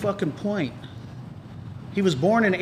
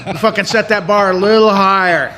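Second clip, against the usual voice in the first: mock excited cheer; 4 semitones higher, 9 dB louder than usual. Mock crowd cheering sliced bread.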